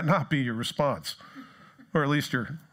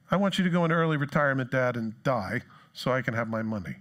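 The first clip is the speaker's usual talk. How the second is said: rushed demand. Retold or imitated. Son's greedy demand.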